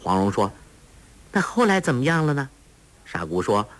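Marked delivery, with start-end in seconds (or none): 1.3-2.5 a hint of a sweet coaxing young girl; lightly voiced clever girl. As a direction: lift the voice a little to coax a simple girl. Huang Rong urging on.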